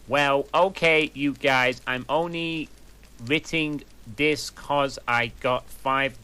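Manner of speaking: bratty author's note. Acted. Author scolding readers who flame her story, indignant. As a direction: scold the readers like a defensive teen writer.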